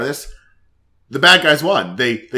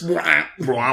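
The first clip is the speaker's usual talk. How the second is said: bloop noise; 2 semitones higher than usual. Retold or imitated. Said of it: "makes a bloop noise".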